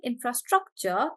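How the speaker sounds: infrastructure with STRUC stressed. Shown as a demonstration. Teacher recapping infrastructure for the class, stress on struc. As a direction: put the weight on "struc" in infrastructure. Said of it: "on struck".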